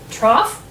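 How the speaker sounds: "trough" ending in off, rising; off sound. Shown as a demonstration. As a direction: say "trough" alone with gh as f. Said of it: "with the off sound".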